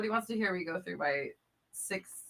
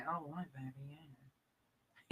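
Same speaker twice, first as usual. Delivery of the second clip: Austin Powers; 3 semitones lower, 13 dB quieter, much faster than usual. Pretend. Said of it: "I loved your Austin Powers".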